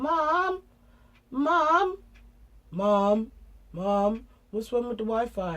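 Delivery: imitated kids yelling for Mum, high then dropping; children calling out. Mum imitating children whose Wi-Fi won't connect, calling out loudly.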